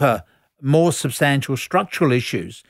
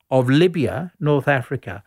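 muffled by covered mic. Real, not acted. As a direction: hand over the microphone. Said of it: "You're covering your mic there".

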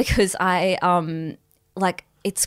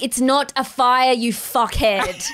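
annoyed retort; 4 semitones higher than usual. Acted. Yelling at the fire alarm.

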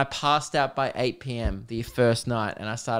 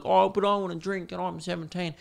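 put-on whiny, higher teenage voice; mocking a teen; 6 semitones higher than usual. Podcaster mocking a seventeen-year-old who wants to drink, in a whiny put-on voice. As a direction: mimic a kid begging to drink. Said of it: "if you're like".

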